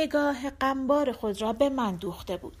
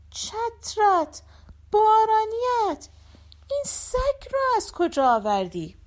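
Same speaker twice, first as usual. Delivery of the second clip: shrieking wife; 7 semitones higher, 3 dB louder than usual. Acted. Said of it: "جیغ کشید".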